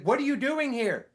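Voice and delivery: high, sharp mock yell at the window; neighbor yelling. Nosy neighbor yelling at him through the car window. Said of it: "Like, yelling into my window".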